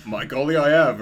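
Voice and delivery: loud, hammed-up British accent; badly faked British actor voice. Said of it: "whatever his real British accent is".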